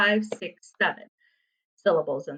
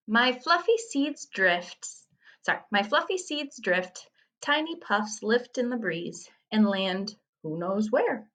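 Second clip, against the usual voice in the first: poem reading. Acted. Teacher reads a summer haiku riddle, poem reading. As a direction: read it slowly, lifting the final word.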